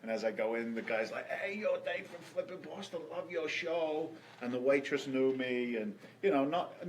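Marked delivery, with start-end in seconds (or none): 1.3-4.1 friendly waiter. Retold or imitated. Waiter greeting him warmly.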